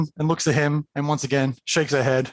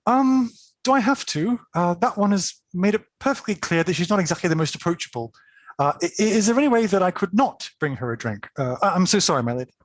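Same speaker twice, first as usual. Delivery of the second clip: lightly voiced servant, pitched higher; hesitant, higher-pitched young servant woman; reluctant servant; 4 semitones higher than usual. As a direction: try politely to wriggle out of it. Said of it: "And she says".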